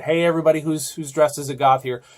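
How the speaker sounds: mock shout across a crowded set; casting call. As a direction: call the goths to set like an assistant director. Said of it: "heard the same call and said".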